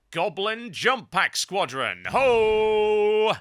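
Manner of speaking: loud, rising goblin war cry; battle cry. Acted. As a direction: charge in with a hammed-up battle shout. Battle cry before jumping.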